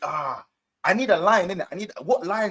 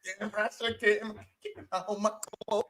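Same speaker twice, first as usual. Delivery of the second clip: softer, spent rant of a fed-up fan; 4 dB quieter than usual. Acted. Impersonating a fan clearing out the club, fading rant. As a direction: wind the rant down, still in character. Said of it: "That's the one".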